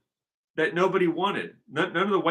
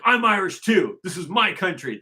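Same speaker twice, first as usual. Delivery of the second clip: raised, insistent imitation African accent; loud opening, higher-pitched put-on African accent; mock African accent; 5 semitones higher, 4 dB louder than usual. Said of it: "saying that with an accent".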